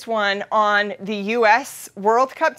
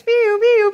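imitated siren; 9 semitones higher, 4 dB louder than usual.

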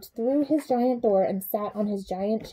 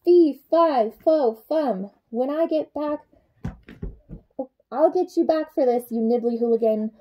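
blustering giant; 3 semitones higher, 3 dB louder than usual. Acted. Giant shouting threats at the escaped nibbler, hammed-up. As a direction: huff and puff like a cross giant.

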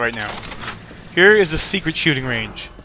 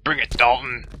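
mock voice; 2 semitones lower than usual. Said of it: "That's not how we sound".

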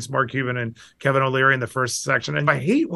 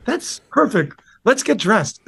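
much higher, slow, soothing wife voice; imitating his wife; 12 semitones higher, 3 dB louder, slower than usual. Wife indulging his rapper plan, high slow mock soothing. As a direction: humour him sweetly, high and slow. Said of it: "And she's like".

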